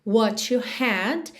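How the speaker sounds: "What you" linked into "wha-tu"; t of "What" joined to "you" like "tu". Shown as a demonstration. Teacher showing the "to" linking in "What you". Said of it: "aquele som to".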